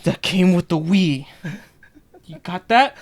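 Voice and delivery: a hint of a cutesy e-girl. Continuing the e-girl bit.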